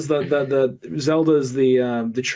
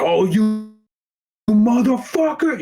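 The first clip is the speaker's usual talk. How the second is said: mock outraged Mario; 7 semitones higher, slower than usual.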